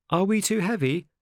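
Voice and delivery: put-on high, young questioning voice; high-pitched puppet; Pinocchio's voice. A narrator's reading. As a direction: ask anxiously in a high little voice. Pinocchio speaks in story.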